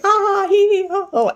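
high, mock ha-hee-ho chant; imitated group laughing. Everybody following the laughing exercise, imitated high mock laughter. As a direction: copy a room laughing on command. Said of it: "everybody's like".

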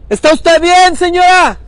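high, loud shout across a distance; projected call, pitched well up. Real, not acted. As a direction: holler a concerned check-in to someone far off. Calling to woman lying in river.

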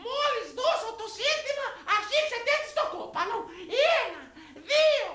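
slow, very high commanding matriarch; high comic battle orders, drawn out; mother-in-law voice. Acted. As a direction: count down the attack in a high voice. Mother-in-law counts down the beating.

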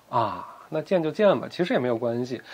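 soft, low, easy concession; relieved. A narrator's reading. Huang Rong accepts the meetings, relieved. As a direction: let it go lightly and quietly. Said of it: "她松了一口气， 嫣然一笑".

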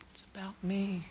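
soft, voiceless whisper; whispered aside. Acted. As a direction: let it slip out as a secret. Confiding punchline aside.

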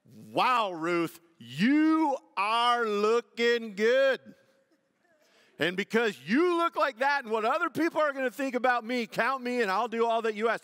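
loud, high, hammed-up flirting; mock admiring. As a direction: stretch it out like a leering admirer, then gush. Mock Boaz admiring Ruth's looks.

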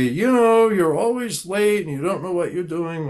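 playing the yelling person, harsh and accusing; mock angry yelling. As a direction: bark it like an irritated boss in a role play. Role play, yelling at client.

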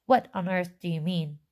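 mildly sharp, exasperated question; sharper question. Acted. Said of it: "That sounds a little bit more sharp".

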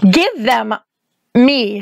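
mild snarl, broken by a pause. A narrator's reading. Witch demands the shoes from the girl, snarling. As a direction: demand it through a restrained snarl. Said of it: "snarled the witch".

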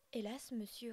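hélas dit humble, en soupir; s'excuser tout bas, humble; humblement. Acted. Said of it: "répondis-je humblement". (l'oisillon répond humblement au père)

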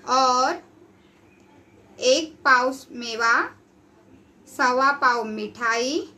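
slow, drawn-out food order; slow greedy list. Acted. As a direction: savour each item slowly. Peturam slowly listing food. (धीरे धीरे खाने की लंबी फ़रमाइश)

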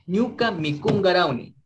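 Ñuka mikun garauni with the k voiced as g; careful teaching read, k turned to g; pronounced with G. Shown as a demonstration. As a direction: say garauni with a g like gato. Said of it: "se va a pronunciar como la G".

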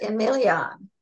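Emilion, with a French-like "-on" ending in place of "-ly"; author's own pronunciation. Shown as a demonstration. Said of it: "I pronounce it".

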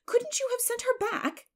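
high, loud incredulous question; busybody pressing for an answer; prying neighbor. Acted. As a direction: push the question right up high.

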